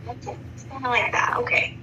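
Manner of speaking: hushed whisper, half to herself; whispered aside. Real, not acted. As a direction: breathe it out like a private aside. Aside after daughter's reassurance.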